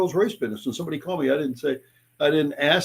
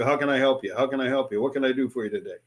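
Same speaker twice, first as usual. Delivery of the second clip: rote sales line; 3 dB quieter than usual. Retold or imitated. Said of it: "we jump right into".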